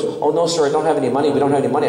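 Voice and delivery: a hint of small-boy Irish lilt; little Irish boy. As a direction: imitate a polite little Irish lad protesting. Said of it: "this little boy that was in line".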